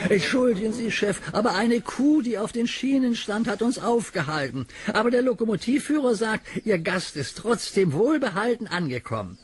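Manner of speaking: a small engine apologizing to the boss; little engine Thomas. Acted. Narrator voices little engine Thomas.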